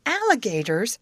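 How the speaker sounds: high frightened cry of alligators; screamed alarm. A narrator's reading. Amy screaming a warning to the girls, frightened. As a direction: shriek it out in sudden fright. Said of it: "screamed Amy".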